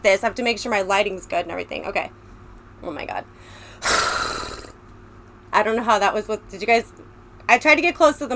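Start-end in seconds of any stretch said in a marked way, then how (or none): 3.8-4.7 horse sound. Shown as a demonstration. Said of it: "that's my horse impression".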